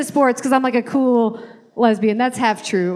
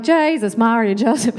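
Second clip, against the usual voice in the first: put-on Irish accent. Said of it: "then I'd go home like".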